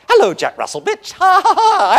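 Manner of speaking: loud, very high manic puppy with crazed laughs; social loon puppy. Acted. Labrador puppy rushing up to adult dogs, manic high shouting. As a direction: shriek it like an overexcited young Labrador. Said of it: "run up to every adult dog".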